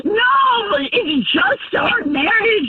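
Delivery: crying. Real, not acted. Wife confronts cheating husband.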